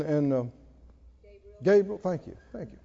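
normal talking voice

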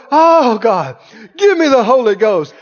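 loud cries of Oh God, then pleading; crying out to God. Retold or imitated. Young man tarrying at the altar, loud pleading cry. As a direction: beg for the Holy Ghost out loud.

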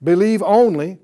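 emphatic repetition. Acted. Preacher repeats Jesus' words.

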